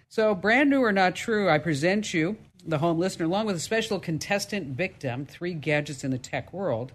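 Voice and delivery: game show host. Acted.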